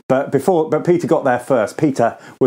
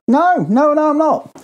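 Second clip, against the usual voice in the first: panicked denial; 13 semitones higher than usual. Acted. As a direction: deny it in a panic, voice shooting up. Peter panics, denying Jesus.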